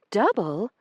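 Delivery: high, loud, prim indignant lady's voice. Acted. Io accusing Branson over the missing stamps, indignant and high. Io's lady voice.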